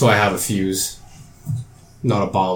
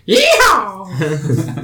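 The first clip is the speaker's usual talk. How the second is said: cheering whoop; 9 semitones higher than usual. Acted. Gnome cheers the blast.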